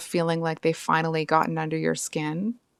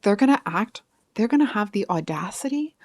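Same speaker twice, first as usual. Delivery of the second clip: worked up and indignant, a little higher; 3 semitones higher than usual. Real, not acted. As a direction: get indignant on the listener's behalf. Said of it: "I'm getting indignant for you".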